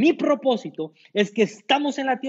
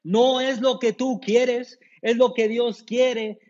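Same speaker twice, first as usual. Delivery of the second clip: slow, every word weighted; slow emphatic statement; 2 semitones higher, slower than usual. Shown as a demonstration. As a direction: drive it home once. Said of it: "Te lo voy a decir una vez". (lento y enfático, palabra por palabra)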